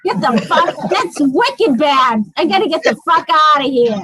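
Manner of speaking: thick Boston accent, laughing. Real, not acted. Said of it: "Boston accent comes right out".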